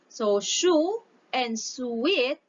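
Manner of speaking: "shu" and "sweet" drawn out slowly; slow, stressed syllables. Shown as a demonstration. Teacher points out stressed syllables to the class, slowly. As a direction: linger on each stressed syllable. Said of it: "stressed syllables".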